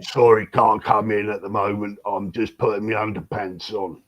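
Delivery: lightly voiced bloke behind the door; a hint of a flustered lad; friendly laddish bloke.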